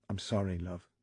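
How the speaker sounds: soft, hushed Lancashire apology; barely above a whisper, ashamed. Acted. Husband hushed, apologising to his hurt wife. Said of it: "he whispered".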